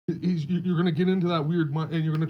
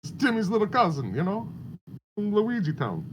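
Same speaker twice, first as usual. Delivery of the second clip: put-on European accent; 5 semitones higher than usual. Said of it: "That's my European accent".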